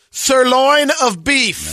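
slow drawn-out royal proclamation; lightly voiced Bugs Bunny; Bugs Bunny knighting. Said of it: "And he says it".

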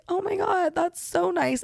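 high-pitched grateful gush; touched thanks. Retold or imitated. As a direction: imitate being moved by a compliment. Retold grateful reply to compliment.

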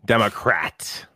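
"Democrat" drawn out slowly with a clear r; slow, deliberate "Dem-o-crat"; careful enunciation. Shown as a demonstration. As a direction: slowly test each syllable of "Democrat". Trying out the word after remark.

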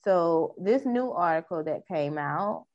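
news anchor delivery; news reporter voice. Acted. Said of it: "trying to get my news reporter voice on".

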